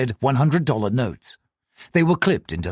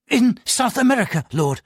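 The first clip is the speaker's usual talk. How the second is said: high, nervous answer; nervous clerk; 10 semitones higher than usual. Acted. Frightened clerk answers the officer, high and nervous. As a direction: answer fast, scared of the police. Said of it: "Lo said nervously".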